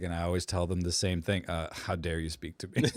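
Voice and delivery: calm imitation. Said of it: "he just says it so calmly too".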